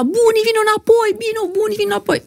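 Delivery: imitating a sister's high desperate cry, Buni come back; desperate plea. Sister screaming at grandma.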